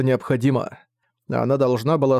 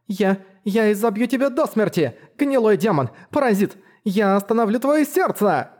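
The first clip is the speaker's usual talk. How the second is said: higher, stumbling mock battle cry; hammed-up fury; 8 semitones higher than usual. A narrator's reading. Girl practicing threats on the dummy, hammed-up fury. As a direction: threaten the dummy with all she's got. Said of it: "Немного лучше. Тон ты ухватила".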